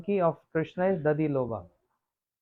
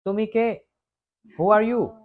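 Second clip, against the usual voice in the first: sweet parrot voice; 3 semitones higher, 4 dB louder than usual. Retold or imitated. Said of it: "in a very sweet".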